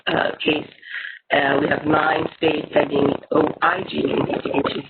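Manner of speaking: breaking up like a bad connection; choppy audio. Real, not acted. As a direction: voice cutting in and out on a call. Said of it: "You're very choppy".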